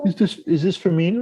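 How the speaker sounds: high, tiny squeaky-creature voice; high Muppet voice, touched by the gift; little Muppet voice. Retold or imitated. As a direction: ask it like a shy little Muppet. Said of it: "And he goes".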